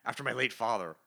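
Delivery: loud, indignant villain declaration; hammed-up wounded pride; Doctor Doom protesting. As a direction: protest grandly, hitting the opening words hard. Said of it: "then Doctor Doom's like".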